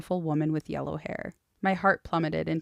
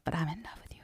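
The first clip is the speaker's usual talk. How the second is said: whispering; 9 dB quieter, faster than usual. Retold or imitated. Confessing love in retelling.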